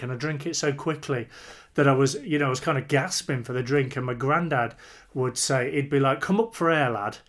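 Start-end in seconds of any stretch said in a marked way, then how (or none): 6.2-7.2 put-on granddad's proper northern accent; lightly put-on northern English accent. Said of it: "he'd say it in this proper northern accent".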